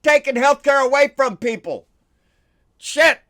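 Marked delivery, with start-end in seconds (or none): 2.8-3.2 disgusted curse. Real, not acted. Disgusted outburst after health care.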